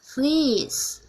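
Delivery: demonstrated New Zealand "fleece"; New Zealand English. Shown as a demonstration. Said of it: "we are going to New Zealand English".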